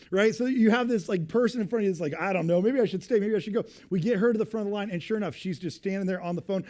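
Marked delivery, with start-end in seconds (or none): 2.2-3.7 louder, singsong indecision; dithering lady. Retold or imitated. Mimicking the lady dithering about staying or going. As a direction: waffle between choices.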